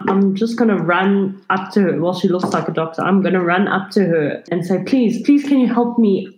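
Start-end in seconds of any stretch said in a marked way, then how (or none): 4.8-6.3 urgent, slightly raised begging; pained pleading. Acted. Injured girl begging a doctor for help, pleading. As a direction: beg for help while hurting.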